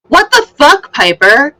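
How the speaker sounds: sudden high, loud outburst; yelling. Acted. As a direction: yell it at Piper in disbelief. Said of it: "You're just yelling".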